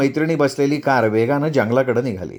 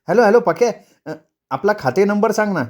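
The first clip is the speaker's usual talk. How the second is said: higher, coaxing phone voice; wheedling wife on phone; 6 semitones higher than usual. Acted. Wife phones husband for account number, coaxing. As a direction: coax the number out of him.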